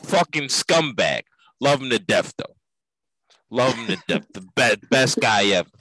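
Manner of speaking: light Italian-American wiseguy voice; a touch of Italian-American bluster; Italian-American mobster accent. Acted. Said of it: "stereotypical voices of Italians".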